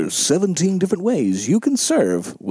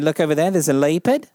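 put-on New Zealand accent. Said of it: "Guy said".

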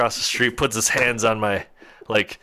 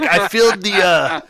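put-on old man's Dutch accent, higher pitched; 7 semitones higher, 4 dB louder than usual. Old man at the truck window telling his story, Dutch accent. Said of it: "that's definitely what the accent sounded like".

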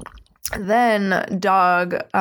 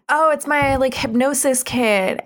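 lightly imitated eager dog, pitched up; a touch of proud excitement, higher voice; excited show-off; 5 semitones higher than usual. Dog showing everyone his new hypnosis kit, mildly excited.

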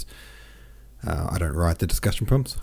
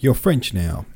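higher-pitched mock insistence; insistent retort; 4 semitones higher, 4 dB louder, slower than usual. French person insisting to Pierre, insistent retort. Acted quarrel over being French.

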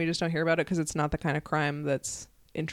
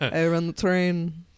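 put-on old-timey voice; much slower than usual. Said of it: "you can be like".

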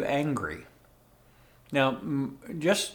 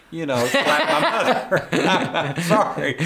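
laughing confession; 3 semitones higher, 6 dB louder than usual. Real, not acted. Confessing urge to slap mother.

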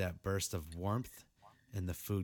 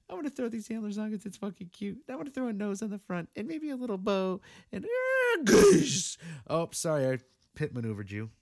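much higher gushing squeal; mock cutesy voice; 11 semitones higher, 6 dB louder than usual. Mocking adults who decorate cars, squealing cutesy voice. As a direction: coo it like a giddy grown-up.

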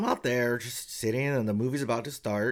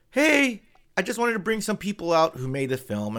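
higher, louder cheerful opener; a hint of an upbeat host; mild host voice; 9 semitones higher, 4 dB louder than usual. Studio boss greeting the crowd, light host voice. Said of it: "And then he says".

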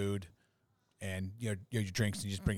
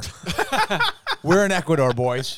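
loud, high whoop of triumph; excited announcement; 8 semitones higher, 10 dB louder, slower than usual. Real, not acted. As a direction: crow the news to the guys. Celebrating show reaching a new country.

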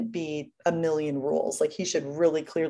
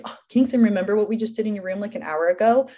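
mock nagging reminder; 3 semitones higher, 4 dB louder, faster than usual. Mocking nagging she avoids.

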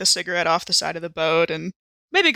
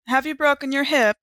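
character question; 8 semitones higher than usual. Acted. Player's character asks old man.

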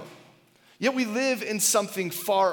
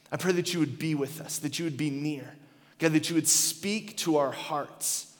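prayer; 2 semitones lower, 3 dB quieter than usual. Acted. Pastor praying over the congregation, soft and sincere. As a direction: pray it quietly and sincerely.

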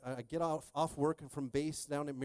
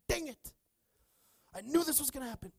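exasperated; 11 semitones higher than usual. Retold or imitated. Retold exasperated reaction to son.

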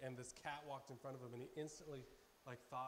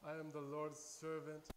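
mock-pious proclamation, somewhat louder; holier-than-thou; 3 dB louder than usual. Speaker mimics feeling holy in the prayer line, mock-pious. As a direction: put on a touch of self-important holiness. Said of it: "a little bit holier than thou".

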